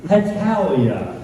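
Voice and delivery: irritated correction, slowing on the last word; mild mock exasperation. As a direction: spell it out to a fool. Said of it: "And the next text said".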